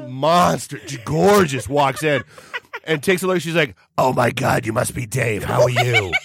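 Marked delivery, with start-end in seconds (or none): 4.0-6.1 smoker's voice. Retold or imitated. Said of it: "that's just how she sounded".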